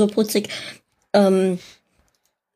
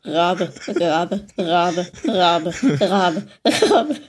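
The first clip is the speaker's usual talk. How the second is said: flat robotic monotone; 4 semitones lower, much slower than usual. Pretend. Glitching computer raven voice.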